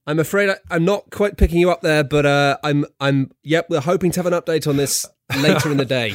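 loud mock field reporter on a bad line; foreign correspondent. Reporter struggling to hear the anchor, mock foreign correspondent. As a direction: project over a poor connection to the studio. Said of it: "your foreign correspondent voice".

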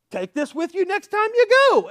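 high, loud eager send-off; excited Paul. Acted. Paul handing Epaphras the letter, excitedly. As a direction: call it out high and loud with enthusiasm.

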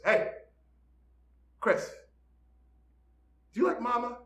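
put-on high-pitched small child, innocently asking; little kid. Little boy waddles up to stepdad, high innocent child voice. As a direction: imitate a curious little kid.

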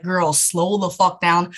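slow, drawn-out mock scolding; drawn-out plea. Imagined viewer tells fast-talking host to slow down, drawn out. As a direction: play a viewer dragging out the words.

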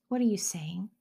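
hushed question to God; a child whispering to God; whispered prayer. Acted. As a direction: ask it softly, listening for an answer. Children taught to pray.

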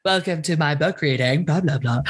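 low, smooth reading-voice demo. Shown as a demonstration. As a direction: glide through it like a book-reading introduction. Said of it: "my smooth voice".

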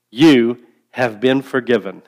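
slow call-and-response line; broad singsong kids theatre. Shown as a demonstration. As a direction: lead the congregation, slow and clear. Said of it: "Can you say that with me?".

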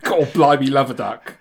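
put-on playful cockney accent; hammed-up cockney. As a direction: ham up a cockney oath. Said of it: "Little bit cockney".

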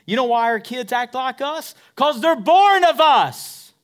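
fiery preacher raising the roof; preaching shout. Acted. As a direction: lift it high and loud, slowing. Preaching climax.

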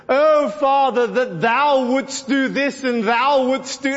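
lightly imitated old-fashioned, lofty praying; exaggerated pious King James recital; mock King James prayer. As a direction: put on a showy prayer voice. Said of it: "he shifted into King James English".

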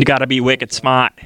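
put-on Boston accent. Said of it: "talking like she's from Boston".

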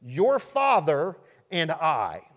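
slow, leaning on Your; mild mother's reproach; stress on Your. Shown as a demonstration. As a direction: point at the word Your. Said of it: "Mary says to Jesus".

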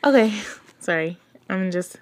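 breathless and excited, laughing; catching breath between words. Real, not acted. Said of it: "I'm getting excited and out of breath".

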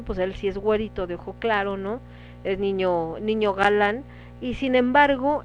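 usual speaking voice

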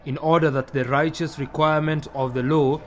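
measured, formal Bible reading with emphatic swells; scripture reading. Acted. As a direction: read scripture to the congregation, phrase by phrase. Reads Scripture aloud to congregation.

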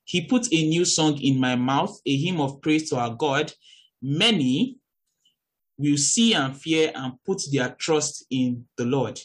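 measured Bible reading; scripture reading. Acted. Preacher reading a psalm to her listeners, measured.

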